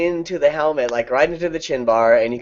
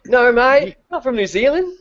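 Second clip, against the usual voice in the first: mock Aussie accent; 10 semitones higher than usual. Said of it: "How about Kiwis?".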